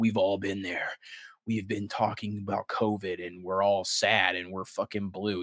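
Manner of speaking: low, mellow, subdued presenter voice. Mimicking the BlizzCon stage presenter, in a mock mellow tone. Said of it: "They're talking like this in a mellow tone".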